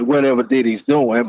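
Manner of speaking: ordinary delivery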